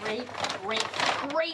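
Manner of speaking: dry, deadpan sarcasm; sarcastic. Acted. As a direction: drone it out sarcastically. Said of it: "I was being sarcastic".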